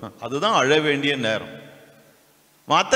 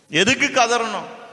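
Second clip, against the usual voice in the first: incredulous; 7 semitones higher, slower than usual. Real, not acted. Mocking rhetorical question.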